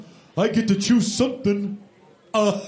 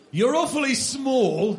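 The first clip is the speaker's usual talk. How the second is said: put-on English accent; 4 semitones higher than usual. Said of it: "He's English".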